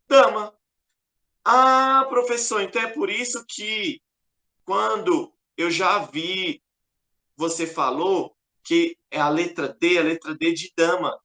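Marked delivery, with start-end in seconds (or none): 1.4-11.2 student voice. Acted. Teacher voices a student's question.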